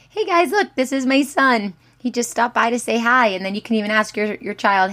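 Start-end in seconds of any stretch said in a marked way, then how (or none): 0.1-3.3 excited. Retold or imitated. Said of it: "be like".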